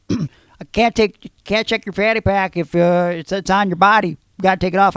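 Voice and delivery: mock the guard's insistent demand; imitating the guard. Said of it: "he just goes".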